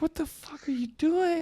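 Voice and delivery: high, voiceless, furious whisper; hissed parental whisper. Retold or imitated. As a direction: whisper it like you're seething. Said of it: "they're like".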